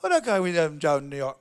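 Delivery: a slurred, loose mumble of the line; mumbled Benicio line. Retold or imitated. Imitating Benicio mumbling his cue line to the room. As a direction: mumble it in character, half-swallowed. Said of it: "he goes just like this".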